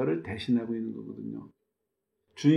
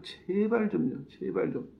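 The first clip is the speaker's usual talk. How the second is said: begging plea; 5 semitones higher, 3 dB quieter, slower than usual. Retold or imitated. Moses begging God.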